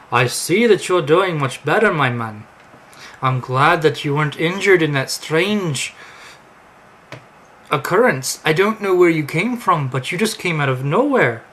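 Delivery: loud, lilting mock Amish voice; hearty greeting in a badly faked Amish accent; terrible Amish accent. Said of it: "Please don't mind my terrible Amish accent".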